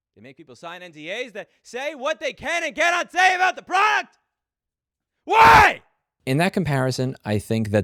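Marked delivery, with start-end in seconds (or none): 0.2-5.9 screaming, higher pitch. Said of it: "try to do that once again into the D J I".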